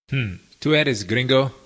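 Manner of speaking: doubtful, sizing-up question; cool suspicious Spanish question; wary, unwelcoming. Shown as a demonstration. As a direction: say it like you've had enough of them. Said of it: "hear it said like that".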